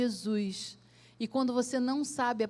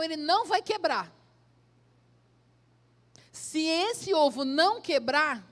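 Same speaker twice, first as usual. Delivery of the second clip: desafio do professor; 3 semitones higher, 5 dB louder than usual. Acted. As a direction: throw down a challenge, raised and deliberate. Professor desafia o aluno crente. (desafio em voz alta e pausada)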